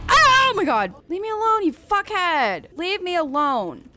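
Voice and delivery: loud, high startled shouts; real fright, yell it off; scared yelling. Real, not acted. Creature attacks again.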